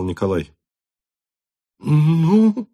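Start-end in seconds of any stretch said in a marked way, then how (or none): 1.8-2.7 high, louder helpless "Ну"; dumbfounded father; stunned. A narrator's reading. Count at a loss before his son, stunned. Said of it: "сказал старый граф".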